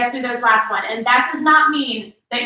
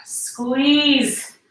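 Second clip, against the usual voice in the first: breathy whispered cue under effort; whispered strain. Real, not acted. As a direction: push it out on a breath. Mid-set, exerting.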